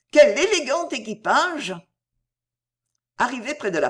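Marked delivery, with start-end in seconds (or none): 0.1-1.7 high, loud gasp of delight; thrilled at the carriage; young woman thrilled by a fine carriage, excited cry; excited exclamation. Acted. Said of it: "s'écria-t-elle".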